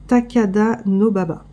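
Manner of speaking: "Takada Nobaba" said slowly, syllable by syllable; careful pronunciation. Shown as a demonstration. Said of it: "celui-là il est dur à dire".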